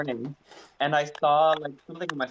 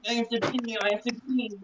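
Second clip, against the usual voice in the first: put-on high, slurred drunk whining; mock drunk begging to pee; lightly slurred drunk whine, high; drunken whine; 7 semitones higher than usual. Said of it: "drunkenly was like".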